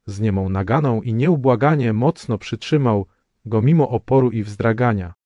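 ordinary delivery, nothing marked

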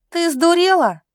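high, loud outraged cry. A narrator's reading. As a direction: cry out at your sister. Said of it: "громко закричала Настя". (громкий возмущённый вскрик)

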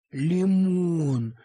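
soothing name call; gentle coaxing. Acted. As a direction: coax the frightened dog by name. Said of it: "стал я его ласково успокаивать".

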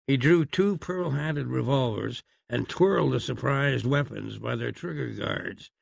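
usual speaking voice

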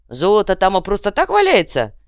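loud doubtful question; incredulous. A narrator's reading. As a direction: ask it full of doubt. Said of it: "недоверчиво спросил контейнер".

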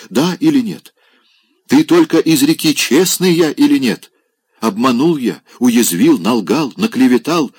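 высоко и громко, надрывно; оправдывается с пьяной патетикой; пьяный пафос. Acted. (Опёнкин громко клянётся бабушке в своей честности)

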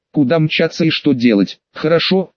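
usual speaking voice

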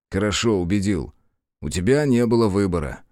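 ordinary delivery

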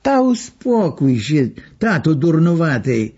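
gentle drawled Lwów balak, no anger. Retold or imitated. Old woman hushes her husband in Lwów balak without anger. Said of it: "zaciąga ślicznym balakiem bez krztyny złości".

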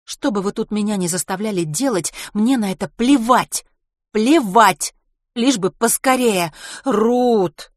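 high, loud, heated outburst; exclaiming. A narrator's reading. Ruth refusing to care, then Mary protesting, exclaiming. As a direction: fling it out forcefully. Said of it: "воскликнула Мэри".

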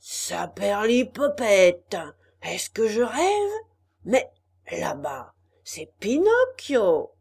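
déclamation forte et lente; ton dramatique. A narrator's reading. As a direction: hurle comme un acteur sur scène. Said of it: "hurler d'un ton dramatique". (Arlequin désigne le fond de la salle, d'un ton dramatique et fort)

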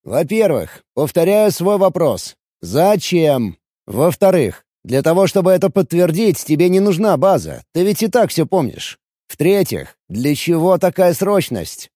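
lightly voiced violinist, demanding answers; a hint of an edgy fiddler's voice; irritated violinist. Violinist lists his objections.

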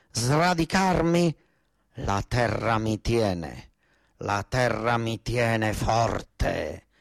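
slow, solemn recital of a poem. Acted. Farmer reciting Scotellaro's poem to the governors, slow and solemn. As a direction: draw out each word of the verse slowly. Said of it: "Questa poesia dice".

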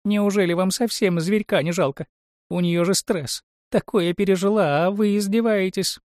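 high-pitched tearful whine; whiny. A narrator's reading. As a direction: plead in a high, whiny little voice. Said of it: "раздался плаксивый голос". (высокий плаксивый голос)

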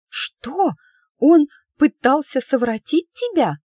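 high, loud outraged gasp of a question; scandalised shock. Acted. Emma hearing her friend was harassed, high and loud outrage. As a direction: recoil in outrage.

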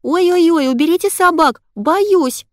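put-on high, loud squealing child's fright; mock scared little girl. Mother pranking son, hammed-up child's terror. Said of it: "запищала я".

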